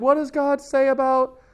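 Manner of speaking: puzzled person lost in a huge book; bewildered reader. Retold or imitated. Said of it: "they're like".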